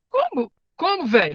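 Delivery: sudden high disbelieving "Como? Como, velho?" with "Como" jumping way up; imitating the boy. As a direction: mimic a stunned kid's slangy reply, pitch leaping on "Como". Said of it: "é mais ou menos que isso fala, a linguagem dele". (imitando o menino, "Como?" bem agudo e incrédulo)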